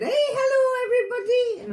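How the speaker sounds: high, cheery Yorkshire grandma greeting; bright Yorkshire hello, sung up high; Yorkshire accent. Retold or imitated. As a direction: attempt a Yorkshire nan's hello. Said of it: "No, I can't do her accent".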